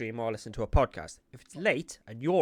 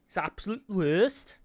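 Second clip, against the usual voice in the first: laughing through the words, higher, louder and slow; 9 semitones higher, 8 dB louder than usual. Real, not acted. Co-host mocking the Brummie accent, laughing it out. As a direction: spill the line out mid-laugh.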